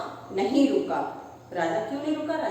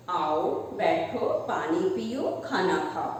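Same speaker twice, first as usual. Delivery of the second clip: slow, lower, coaxing welcome; sweet parrot voice; 4 semitones lower, slower than usual. Acted. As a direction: invite the king in gently. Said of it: "मीठी आवाज में बोला".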